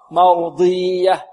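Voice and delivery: "مرضية" drawn out with ي left separate and unstressed; slow mistaken example of "مرضية"; faulty unpressed ya. Shown as a demonstration. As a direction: demonstrate wrong "مرضية", long ee without shadda pressure. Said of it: "لا بد من النبر والضغط".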